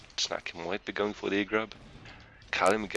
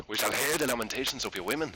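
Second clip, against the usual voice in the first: Conan quote; 3 semitones higher, faster than usual. Pretend. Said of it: "Conan reference there".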